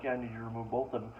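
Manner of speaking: calm, quick, unbothered reply. Retold or imitated. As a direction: say it like you've heard it a hundred times. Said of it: "he was so calm about it".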